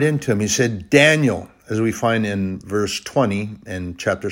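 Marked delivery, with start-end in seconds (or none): 0.9-1.5 calling out. Retold or imitated. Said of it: "he hollered into the den".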